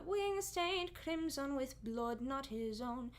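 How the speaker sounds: slow, drawn-out sung-style vowels with blood placed far back; folk-choir pronunciation; choral folk diction. Shown as a demonstration. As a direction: stretch "blood" long and hooded in the back of the mouth. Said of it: "it's very drawn out".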